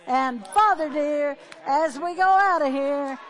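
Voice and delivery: loud, rising preacher's blessing; a closing blessing declared loudly to the congregation; fervent prayer. Acted. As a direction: pray it out with full force over the room.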